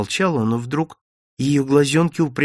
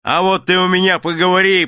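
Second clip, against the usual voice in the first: louder, higher threat; threatening; 8 semitones higher, 5 dB louder than usual. A narrator's reading. Yard-keeper threatens the cheeky vendor. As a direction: warn him off. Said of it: "погрозил дворник".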